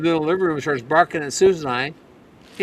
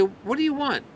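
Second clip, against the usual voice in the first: pitched-up mock-puzzled question; asking the dog; 8 semitones higher than usual. Owner asking the yapping puppy at the door, mock puzzled. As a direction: ask the yapping dog, half amused. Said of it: "You look at her and say".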